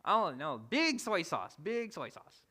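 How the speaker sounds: put-on high-pitched demanding child; playful mimicry of a stubborn daughter; picky little girl. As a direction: imitate a fussy kid ordering food. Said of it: "She's like".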